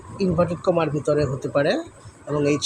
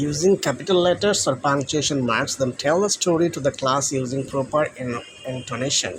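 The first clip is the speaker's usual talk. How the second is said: slow reading; much slower than usual. Shown as a demonstration. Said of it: "এখানে রয়েছে".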